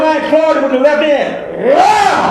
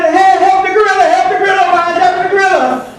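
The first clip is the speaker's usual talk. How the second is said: raised, higher pleading crowd voice; 5 semitones higher than usual. Retold or imitated. Onlookers begging the lion, raised higher voice. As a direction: call out to the lion to save the gorilla. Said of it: "the people are saying".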